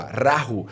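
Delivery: "Rahu" pronounced as a Quechua word; Quechua pronunciation. Shown as a demonstration. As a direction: say "Rahu" clearly, RA-hu. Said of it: "Em Quechua". ("Rahu" com pronúncia quéchua)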